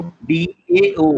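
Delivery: डीएओ drawn out high and loud as "tao"; model pronunciation. Shown as a demonstration. Teacher modelling the syllable for students, slow and high. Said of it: "कैसे pronounce करेंगे?".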